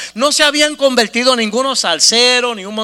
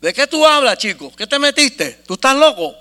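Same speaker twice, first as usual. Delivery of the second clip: raised-voice mock disbelief; incredulous partner; 4 semitones higher, 4 dB louder than usual. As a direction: act out a baffled, indignant friend. El socio reacciona incrédulo. (socio incrédulo, imitado con voz alta)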